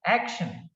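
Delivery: "action" with AC prominent; stress on first syllable. Shown as a demonstration. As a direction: give "action" a strong first beat. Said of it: "The first syllable is".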